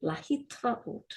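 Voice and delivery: a fast, easy להתראות; quick lehitraot. Shown as a demonstration. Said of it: "say it again".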